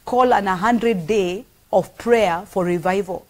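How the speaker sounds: slow, measured divine command; voice of God. Retold or imitated. Preacher slowly voicing God's command to her. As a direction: deliver it slowly like a solemn call from above.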